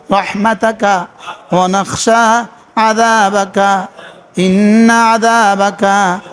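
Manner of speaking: slow, measured recitation of the Qunut; prayer recitation. Shown as a demonstration. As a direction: chant each phrase deliberately, like a model reading. উচিত ছিল এভাবে পড়া. (ধীরে ধীরে দোয়া কুনুত তিলাওয়াত)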